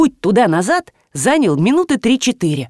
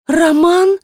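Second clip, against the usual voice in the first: mother's call; 9 semitones higher, 4 dB louder than usual. A narrator's reading. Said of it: "начала женщина".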